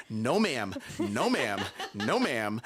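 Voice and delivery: giggly repeated no ma'am; laughing no ma'am. Retold or imitated. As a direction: kids laughing off the offer. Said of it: "the kids were like".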